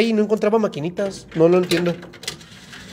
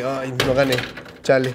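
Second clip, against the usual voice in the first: slightly lower, let-down mutter to oneself; mild mock disappointment; 4 semitones lower, slower than usual. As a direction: act a little bummed about losing. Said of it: "te sientes mal porque no ganas".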